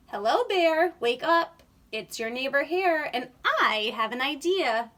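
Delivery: loud wake-up call. Acted. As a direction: call him awake across the yard. Calling out to a sleeping bear.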